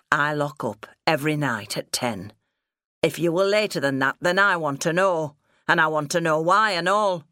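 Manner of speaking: insistent father, a touch gruff; lightly voiced stern farmer father. Father demanding explanation from daughter, mildly stern. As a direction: lay down the law, building in force.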